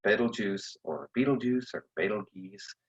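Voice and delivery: Betelgeuse said three different ways in a row; vary the pronunciation of each Betelgeuse; alternative pronunciations. Shown as a demonstration. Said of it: "depending on how you want to pronounce it".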